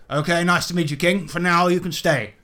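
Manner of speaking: lightly voiced blustering colonial, quick warnings; grudging welcome sinking into a threat; threatening Willie Dynamite figure. Willie warning the king, mildly menacing bluster.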